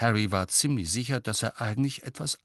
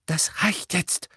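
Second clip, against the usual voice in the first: high, slow, cross reprimand; annoyed; 10 semitones higher, slower than usual. A narrator's reading. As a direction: put an irritated stop to the questions. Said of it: "sagte Misses Weasley verärgert". (verärgert, scharf)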